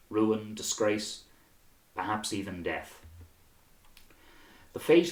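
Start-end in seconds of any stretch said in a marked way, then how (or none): none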